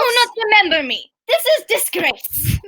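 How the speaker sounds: put-on indignant foreign accent, slowing at the end; badly faked Russian-sounding accent, affronted; muddled Russian-like accent. Bitsy protesting to the priestess, muddled Russian-like accent. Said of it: "when did Bitsy become Russian".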